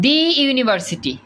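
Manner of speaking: দি university with দি as "dee", slow; "dee" before vowel. Shown as a demonstration. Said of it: "উচ্চারণটা করতে হবে দি". (ধীরে "দি" উচ্চারণ)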